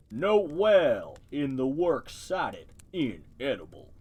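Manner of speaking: slow, deep creature voice; low and slow like a snapping turtle. Acted. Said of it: "give it a deep voice".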